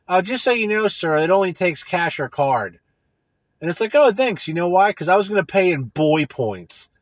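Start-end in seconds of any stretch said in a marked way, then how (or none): 0.1-2.8 lightly mimicked attendant, starting higher and slowing down; self-checkout attendant. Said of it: "this lady comes up to me". 4.0-6.9 high, loud sarcastic thanks easing down; mock gratitude. Sarcastic imagined reply to attendant.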